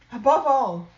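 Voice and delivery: "above" pushed high and loud; stress on above. Acted. Mother mouse drilling her children, stressing "above". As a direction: lean hard on "above all". Repeated for emphasis.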